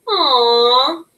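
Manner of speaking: "Aw" drawn out as the aw sound. Shown as a demonstration. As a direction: model the aw sound. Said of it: "It says".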